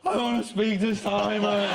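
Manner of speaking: put-on whiny slowed child wail; mock crying child. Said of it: "in the end he was crying".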